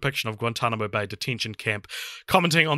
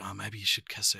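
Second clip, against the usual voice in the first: low, hushed gruff whisper; 4 semitones lower, 10 dB quieter than usual. Retold or imitated. Kumar orchestrating a threesome, gruff whisper. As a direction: imitate a creepy, gruff whisperer. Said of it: "he's, like, gruff whispering".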